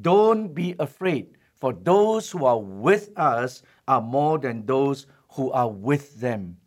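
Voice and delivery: slow, steady, reassuring prophet; calm the frightened servant with unhurried certainty; calm declaration. Retold or imitated. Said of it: "he declared this".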